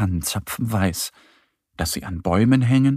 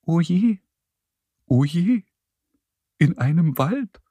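high, plaintive little mole voice; acted high moan of dismay; wailing mole; 7 semitones higher than usual. A narrator's reading. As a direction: lament it in a higher voice. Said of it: "jammert der Maulwurf".

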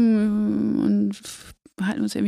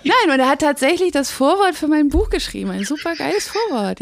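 stifled giggles; 6 semitones higher than usual. Real, not acted. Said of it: "Jetzt hört auf zu lachen".

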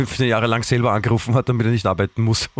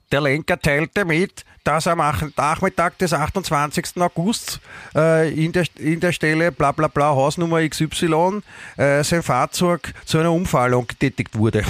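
slow, higher, stiff officialese reading; police report voice; 4 semitones higher than usual. Retold or imitated. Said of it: "in diesem wunderschönen Polizistendeutsch".

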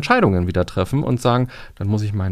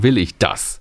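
weight on "das" as the question closes; stress on DAS; 3 semitones lower, slower than usual. Shown as a demonstration. Coach applying the question to a tax penalty, stress on "das". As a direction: end the question on a firm "das". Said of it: "dann ist eben die Frage".

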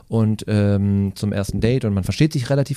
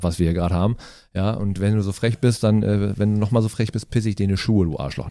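cat voice. Acted. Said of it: "so würde eine Katze reden".

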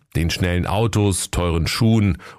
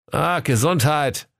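higher, slow comic reply; Kaiser calling out; 8 semitones higher than usual. Acted. Kaiser answers the brand name, high and slow. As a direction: mistake it for a sneeze, drawn out. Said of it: "rief der König Kaiser".

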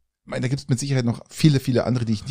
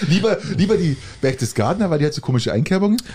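teasing laugh; 3 semitones higher, faster than usual. Retold or imitated. Mocking his reason, laughing.

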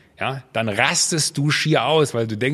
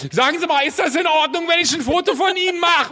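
much higher, sing-song polite fan voice; mock pushy fan; 14 semitones higher than usual. Fan with phone camera at restaurant, high mock politeness. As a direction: ask sweetly for a photo, hammed-up.

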